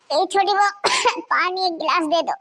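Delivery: put-on high, weak old voice between coughs; feeble old woman. Coughing mother-in-law begs her daughter-in-law for water, feeble. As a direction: croak out the plea for water.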